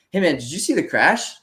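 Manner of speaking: dazed repeat. Retold or imitated. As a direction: ask it fresh as if never asked. Concussed rider repeats question forgetfully.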